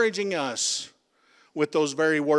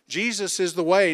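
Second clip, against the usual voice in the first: louder, ringing proclamation of Jesus is the way; loud declaration; 2 semitones higher, 4 dB louder than usual. Shown as a demonstration. Preacher to congregation, repeating the answer, loud and ringing. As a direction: call it out so the whole room answers. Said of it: "Who's the way?".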